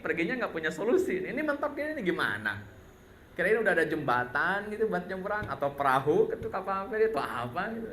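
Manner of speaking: grumbling Israelites. Retold or imitated. Israelites grumbling at Musa at the sea, mock whiny complaint. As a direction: nag Musa like fed-up travellers. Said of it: "Akhirnya mereka ngomel".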